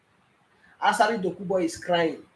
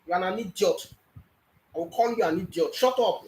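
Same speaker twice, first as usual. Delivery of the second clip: angry insult. Real, not acted. Caller insulting panelist.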